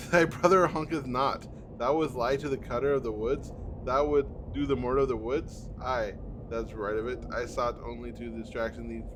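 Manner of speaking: hint of a lofty old tree speaking; solemn tree voice. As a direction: read it as an old forest spirit. Tree dialogue, confrontation.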